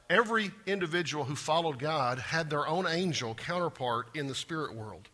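usual speaking voice

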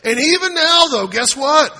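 loud, high preaching burst; preaching shout. Real, not acted. Pastor shouts the point to his congregation, loud and high.

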